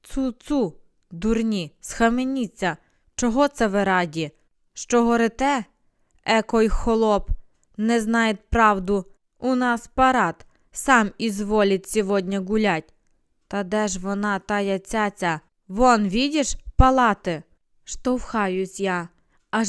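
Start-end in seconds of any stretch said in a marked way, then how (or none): 0.0-5.6 scolding the crowd. Acted. Narrator rebukes cheering crowd. 6.2-17.4 mocking bystander. Bystander mocks in Russian-tinged speech.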